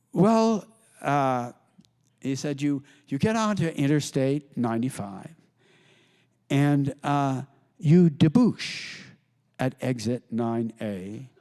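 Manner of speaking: slow, drawn-out patrician drawl; lightly voiced grand Buckley. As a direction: stretch out the fancy words like Buckley. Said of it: "He sounds the same as he does on television".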